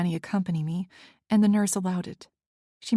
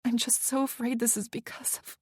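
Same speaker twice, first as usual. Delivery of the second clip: voice breaking; 4 semitones higher, 4 dB quieter than usual. A narrator's reading. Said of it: "my voice broke".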